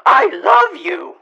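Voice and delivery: high, loud, slow shouted love; crazed declaration. Acted. Intruder confessing to the homeowner, crazed shout. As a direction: declare it like a maniac. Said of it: "those crazy eyes".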